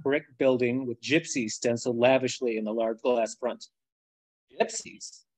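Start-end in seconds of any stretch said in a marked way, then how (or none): 4.5-5.2 confused question. A narrator's reading. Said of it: "I ask, confused".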